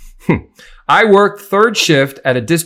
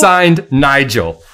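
slow dramatic sign-off; 3 dB louder, much slower than usual. Acted. Reading letter signature.

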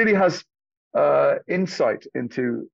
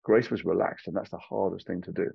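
Cary Grant impression. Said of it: "He says".

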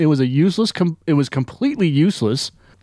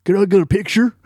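mock tough guy; 4 semitones higher than usual. Podcaster mocking the script with a lightly voiced tough guy. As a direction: ham up a pushy bar thug. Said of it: "punched up the script and said".

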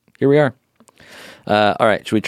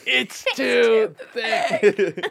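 high, very slow dying gasp through laughter; hammed-up dying words, laughing; wounded soldier gasping; 13 semitones higher, much slower than usual. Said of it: "You say as you die".

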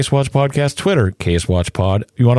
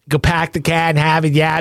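mock Boston accent; 7 semitones higher than usual. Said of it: "That's Charity, one alcoholic drink in".

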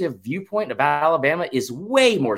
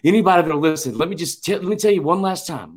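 raised, insistent mock plea; mock pleading; 4 semitones higher, 4 dB louder than usual. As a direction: plead your case in imitation of a lobbying coach. Mimics coach pleading for his team.

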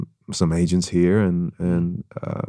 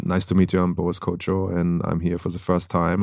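lightly put-on heavy German accent; a hint of thick German accent, intro line; super hard German accent; 3 dB quieter than usual. Shown as a demonstration. Actor demoing the old accent to hosts, light German accent. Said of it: "so people talk like this".

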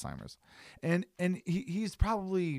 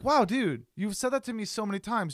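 exasperated retort; 3 semitones higher, faster than usual. Retold or imitated. Imagined reply to the repeating stranger, higher exasperated teasing. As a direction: needle him about his one line. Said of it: "I'm like".

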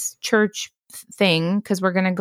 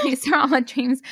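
laughing admission; 6 semitones higher than usual. Real, not acted. Laughing after friend's reaction.

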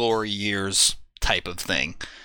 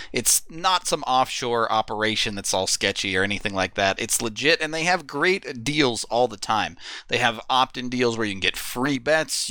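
upbeat sponsor ad read. Acted. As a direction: sell it like a radio spot. Reads sponsor ad.

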